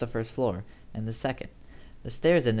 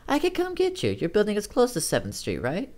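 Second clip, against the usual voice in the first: much higher voice for Amy; Amy's voice; 10 semitones higher than usual. Acted. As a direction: lift the pitch well up to play Amy. Narrator voices Amy on phone.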